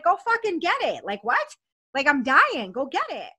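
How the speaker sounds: high-pitched, impatient demand; retold desperate urging. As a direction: reenact pleading urgently for relief. Retold desperate order to fetch it.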